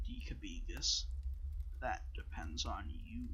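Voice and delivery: deliberate, withholding, letting each word land; mysterious Guardian voice. Acted.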